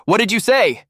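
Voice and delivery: loud, high-pitched shout of disbelief; shocked shout. A narrator's reading. Liu Yan, angry at Yunqi, shouting in shock. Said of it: "shouts in shock".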